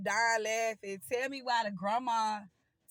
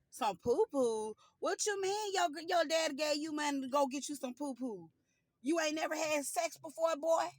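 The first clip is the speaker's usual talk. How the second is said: shocked grandma; 5 semitones higher than usual. Retold or imitated. Grandma voiced, shocked question.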